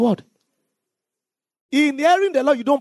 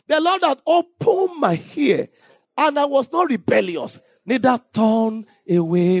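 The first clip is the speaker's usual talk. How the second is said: slow reading of the verse, rising in places; deliberate pulpit reading; slow scripture reading; 3 semitones higher, slower than usual. Acted. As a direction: draw the verse out word by word. Reads scripture slowly.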